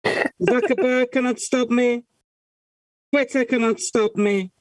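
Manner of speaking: talking into a mug; muffled into a mug. Real, not acted. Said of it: "I'm leaning over, talking into a mug".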